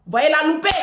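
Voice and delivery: loud repeat. Retold or imitated. Repeating his words angrily.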